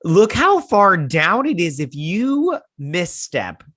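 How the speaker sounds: high, loud, drawn-out panic; anxious alarm. Acted. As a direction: stretch each word in hammed-up dread. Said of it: "would give me anxiety up the wazoo".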